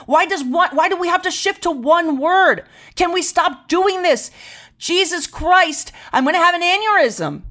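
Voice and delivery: high, wound-up exasperation, slowing to a crawl on "Jesus Christ"; exasperated rant. Real, not acted. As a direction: boil over in frustration about being labelled. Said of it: "I'm very concerned".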